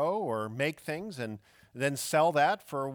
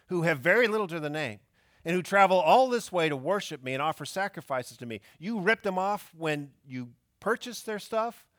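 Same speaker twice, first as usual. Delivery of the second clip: a rising, louder rebuke of the money changers; furious Jesus; 3 semitones higher, 7 dB louder than usual. Acted. Jesus rebuking the temple money changers, angry and louder. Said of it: "and he is furious".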